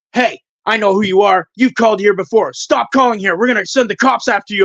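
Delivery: imitated angry phone rant; mock an irate man warning off a caller; flipping out. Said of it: "he fucking flipped out".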